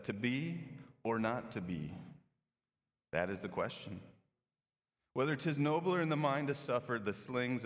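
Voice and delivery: lightly hammed Shakespearean recital. Shown as a demonstration. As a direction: declaim it like a Shakespeare actor. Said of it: "in my best Shakespearean voice".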